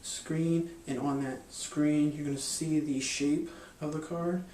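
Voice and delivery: slow, deliberate hypnotic patter; slow suggestive patter. Shown as a demonstration. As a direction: draw the words out to plant an image. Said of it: "I'm doing it quickly, and I'm doing it subtly".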